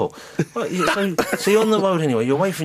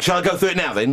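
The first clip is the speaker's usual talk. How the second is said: slightly belligerent; 6 semitones higher than usual. Retold or imitated. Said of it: "slightly belligerent".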